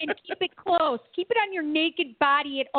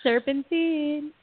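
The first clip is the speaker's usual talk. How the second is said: drawn-out serpentine; 3 semitones higher, slower than usual. Retold or imitated. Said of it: "he also said serpentine".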